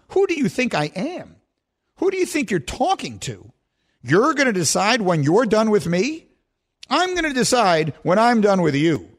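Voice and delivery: mildly indignant retort, pitch lifted; defiant Aaron Rodgers. Retold or imitated. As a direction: push back as if imitating an affronted star. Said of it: "And Aaron Rodgers said".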